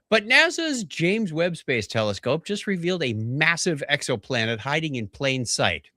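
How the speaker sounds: emphatic headline delivery; news read. Real, not acted. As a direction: read the science story with big emphasis. Reads news story aloud.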